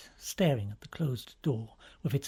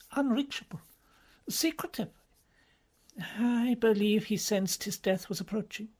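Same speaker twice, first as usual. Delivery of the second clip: hushed, haunted cardinal; 6 semitones higher than usual. A narrator's reading. Bellini speaks of late pope.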